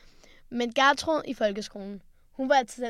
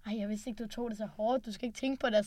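soft, gentle teacher consoling; hushed teacher reassurance; teacher comforting; 5 dB quieter than usual. Retold or imitated. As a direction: soothe a crying student quietly. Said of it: "så kommer hun ud og så sådan".

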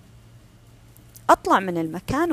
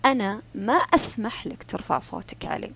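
firm, level, not raised; serious and clear. Shown as a demonstration. To someone raising his voice, firm and level. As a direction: state the limit calmly but seriously. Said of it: "أقولها بصوت جاد واضح ومعتدل الارتفاع".

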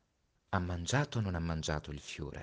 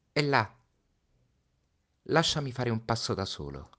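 put-on higher child's voice, urgent and sad; a boy bracing his friend for his death; Little Prince, pleading; 6 semitones higher, 4 dB louder than usual. (Piccolo Principe, voce acuta e accorata)

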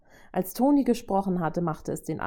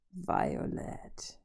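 pleased call; 8 dB quieter than usual. A narrator's reading. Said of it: "rief er erfreut".

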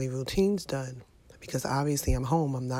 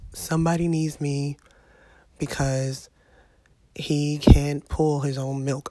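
frustrated rant; 3 dB louder than usual. Retold or imitated. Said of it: "I'm literally just like".

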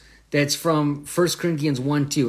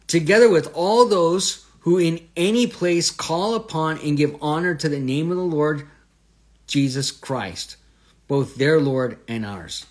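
raised verse reading, slowing toward the end; emphatic scripture reading; 3 semitones higher, 4 dB louder than usual. Real, not acted. Teacher reading Paul's words to listeners, emphatic reading.

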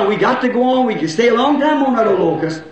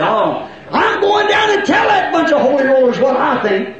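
huffy, raised mock shout; mock indignant churchgoer; 4 semitones higher than usual. Preacher mocking a flustered churchgoer, indignant mock shout. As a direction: play the offended member storming off.

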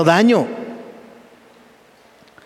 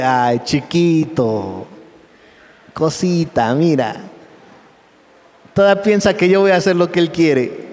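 tender Jesus. Acted. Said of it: "Y Jesús así de".

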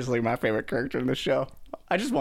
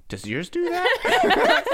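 put-on high, slow, awed child-like question; innocent Ezra question; 4 dB louder, much slower than usual. Ezra asking Kanan about the spinning saber. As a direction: ask it wide-eyed and innocent. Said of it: "and he goes".

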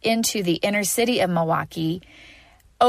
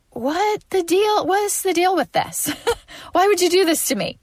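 exasperated complaint; 10 semitones higher than usual. Retold or imitated. Retold complaint to God.

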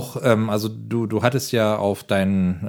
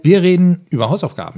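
mock announcement; 6 semitones higher, 5 dB louder than usual. Mock announcement of homework topic.

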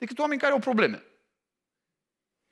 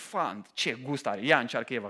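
delighted Adam; 9 semitones lower, 5 dB quieter than usual. Acted. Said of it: "Și Adam spune".

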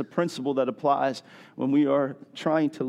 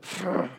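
short puff of air through the lips; dismissive pfft; 5 dB quieter than usual. Acted. Preacher imitating someone sweeping, dismissive pfft. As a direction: blow a quick, unimpressed pfft. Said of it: "I was like".

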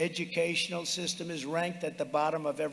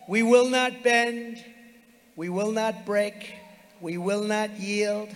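roaring rallying speech; 2 semitones higher, slower than usual. Real, not acted. Rally chant, slow and punched.

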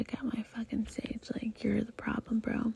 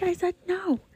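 firm refusal; 8 semitones higher, 3 dB louder than usual. Retold or imitated. Rebuffing pushy men.

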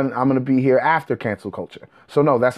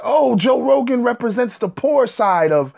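mocking conspiracy guys; 6 semitones higher than usual. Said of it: "you got all these guys".

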